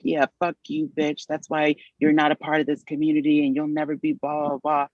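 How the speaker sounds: high-pitched imitation of a heckler; mock taunting. Retold parting insult from the cab.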